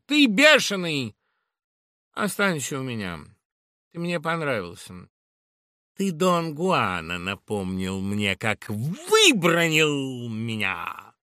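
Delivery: thrilled by his temper; Laura, delighted. Acted. Laura voiced by reader.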